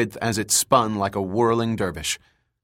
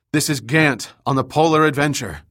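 raised voice over rumbling; shouting over noise; 4 semitones higher than usual. Acted. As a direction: shout above the roar. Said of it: "He had to shout to be heard".

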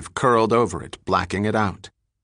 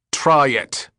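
demanding; 4 semitones higher, 4 dB louder than usual. Acted. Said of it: "O'Shea demanded".

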